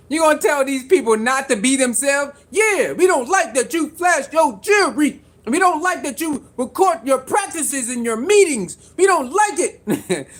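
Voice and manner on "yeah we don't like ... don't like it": petty haters' whine, mock shouted; mocking haters. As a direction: sneer it like a sulky critic. Voicing haters' complaints.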